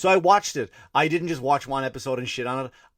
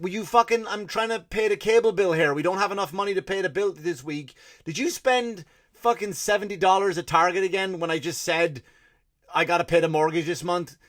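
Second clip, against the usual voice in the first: nagging wife rant; 6 semitones higher than usual. Retold or imitated. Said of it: "And she's like".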